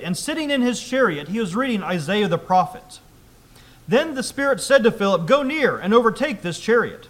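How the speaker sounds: loud, emphatic public Bible reading; scripture reading. Acted. Preacher reads Acts to the congregation, loud scripture reading. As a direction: read the passage out firmly to the congregation.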